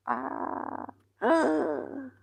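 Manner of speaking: high strained groans from a sore neck; pained groans. Real, not acted. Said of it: "I will be making these sounds, but I'm here injured".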